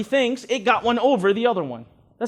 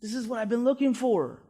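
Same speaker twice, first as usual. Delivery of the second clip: a soft, near-whispered delighted inner voice; subconscious quietly loving the seller; eager inner voice; 6 dB quieter than usual. Retold or imitated. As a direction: whisper it like a pleased inner thought. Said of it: "the subconscious is there, and it's like".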